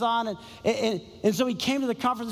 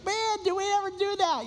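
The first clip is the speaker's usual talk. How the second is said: amazed thought; 10 semitones higher than usual. Retold or imitated. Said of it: "I was just thinking".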